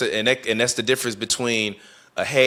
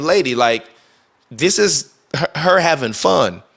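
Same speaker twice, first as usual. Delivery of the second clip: annoyed retort; 5 semitones higher than usual. Retold or imitated. Telling off the arguing lady.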